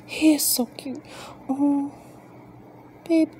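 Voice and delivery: high, whispered gush. Real, not acted. Owner whispers over her sleepy tortoise, whispered gushing.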